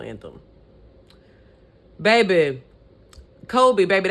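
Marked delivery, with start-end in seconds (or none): 2.0-4.1 sassy call. Real, not acted. Sassy address to Colby.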